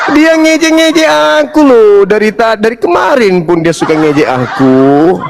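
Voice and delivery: whining through laughter, pitched high at first; laughing mock complaint. Real, not acted. (mengeluh sambil tertawa)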